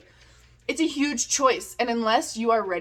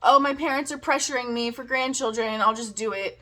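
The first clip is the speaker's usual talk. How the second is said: pressured women; 3 semitones higher than usual. Retold or imitated. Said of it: "they feel".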